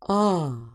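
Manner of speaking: "ah" as the short O in stop. Shown as a demonstration. Teacher introducing the short O to learners, short O. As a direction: sound out an isolated "ah" for short O. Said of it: "The short sound is".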